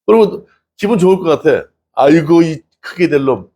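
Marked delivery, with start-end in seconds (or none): 1.9-3.5 fond praise. Pretend. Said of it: "엄마가 야단을 치고 욕을 해야 되는데".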